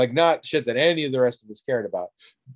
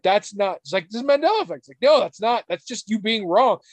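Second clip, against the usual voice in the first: retold scornful friend; 8 semitones higher than usual. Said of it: "the other one's like".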